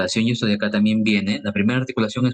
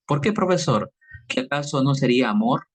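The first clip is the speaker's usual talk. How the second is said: higher, playing a curious student; mock student question; 3 semitones higher than usual. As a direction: ask like a puzzled pupil. Teacher voices a student's question.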